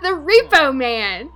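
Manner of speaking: drawn out through laughter; giggly, stretched-out words; cracking up. Real, not acted. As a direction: repeat the name slowly, laughing. Cracking up at a silly name.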